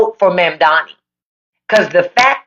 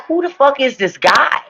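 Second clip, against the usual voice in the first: retold outburst; 6 semitones higher than usual. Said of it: "I was like".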